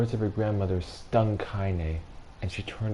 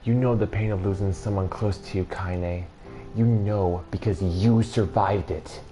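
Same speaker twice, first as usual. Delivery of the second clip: tremor held back; 3 dB louder than usual. Acted. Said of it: "tried to still the tremor in her voice".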